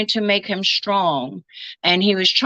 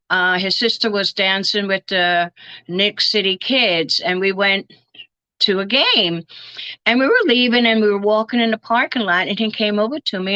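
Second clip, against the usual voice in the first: ordinary delivery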